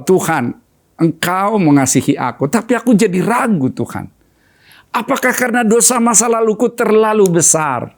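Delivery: doubting, pleading prayer recalled; lightly voiced anguished plea; a hint of tears in the retelling; retold tearful prayer. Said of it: "Dan saya menangis di hadapan Tuhan".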